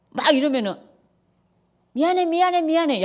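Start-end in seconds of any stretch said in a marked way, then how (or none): 1.9-3.0 empty apology. Retold or imitated. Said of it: "이런, 이런 식으로".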